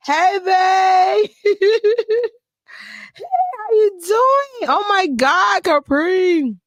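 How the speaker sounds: light up as your partner joins; excited high greeting. Real, not acted. Host welcoming her partner on the live stream, squealing high.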